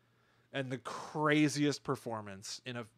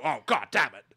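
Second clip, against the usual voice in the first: put-on affected posh accent, louder; Frasier; 5 dB louder than usual. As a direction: swear in a cultivated upper-class accent. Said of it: "He wouldn't go".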